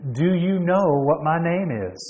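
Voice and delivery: lilting, mocking question; student's mock-innocent challenge. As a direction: taunt the professor with it. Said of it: "rephrased the question mockingly".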